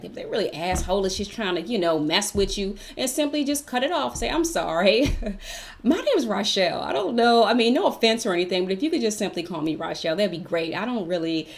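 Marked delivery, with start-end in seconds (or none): 4.3-11.5 lightly put-on proper English; a touch of fancy office voice; fancy schmancy voice. Shown as a demonstration. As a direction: demonstrate a polite workplace correction in careful proper speech. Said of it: "put your little fancy schmancy voice on".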